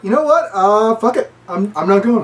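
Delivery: defiant. Retold or imitated. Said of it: "And Seth's like".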